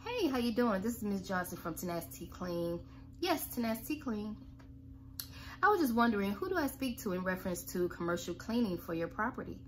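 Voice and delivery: calm, friendly, even call opener; friendly middle voice. Shown as a demonstration. Caller opening a cold call in a friendly, even voice. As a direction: talk like to an old friend. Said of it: "be warm right in the middle".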